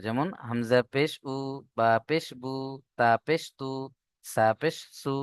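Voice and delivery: উ, বু, তু, সু with a short clipped u; short u vowel. Shown as a demonstration. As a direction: read উ, বু, তু, সু quick, no stretch. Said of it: "হস্য উ এর মতো". (পেশের ছোট উ উচ্চারণ)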